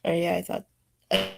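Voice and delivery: off mic, talking to someone in the room; turning away from phone. Real, not acted. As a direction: answer mom away from the mic. Answering mom in the background.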